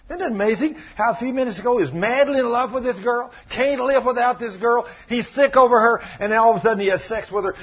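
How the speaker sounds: high, driving sermon delivery; impassioned preaching. Real, not acted. Preacher marvels at love turned to hatred, impassioned. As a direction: pile up the phrases with incredulous force.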